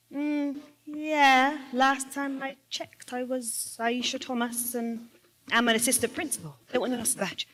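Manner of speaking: answering the doubting clerk with sarcasm; calm sarcastic reply. Retold or imitated. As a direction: spell it out coolly, word by word. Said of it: "are you sure you got the right badge".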